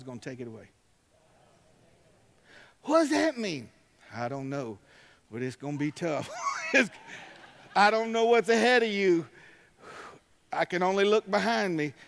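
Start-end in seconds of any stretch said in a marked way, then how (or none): 2.8-3.7 high, loud rhetorical question. Acted. Preacher to congregation, loud rhetorical question. 6.8-11.9 loud, high burst of preaching; shouting preacher. Real, not acted. Preacher to the church, loud and high.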